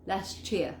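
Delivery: LAST YEAR as "lashchear"; fused CH between LAST and YEAR; CH assimilation. Shown as a demonstration. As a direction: run LAST YEAR together as one word. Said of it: "y queda ese ch".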